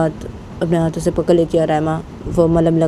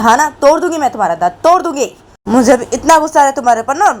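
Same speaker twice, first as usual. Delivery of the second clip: furious yelling; 4 semitones higher than usual. Acted. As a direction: scream at her to shut up, pitched way up. Raima rages at Bani.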